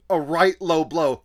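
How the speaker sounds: slow, mock British offence; hint of a fake Brit; mock British accent. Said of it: "sounds like someone pretending to be British".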